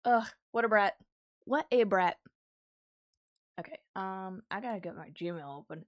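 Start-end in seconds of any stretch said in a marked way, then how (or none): 0.1-2.2 playful mock disgust. Real, not acted.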